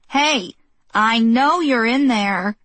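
calling loudly through the door; shouting. Acted. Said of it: "Missus Wilson shouted".

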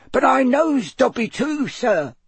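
put-on very high, teeny quivering squeak; elf squeak. A narrator's reading. House elf tells Harry of a shared friend, squeaking. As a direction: pipe up as a little house elf. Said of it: "squeaked the elf".

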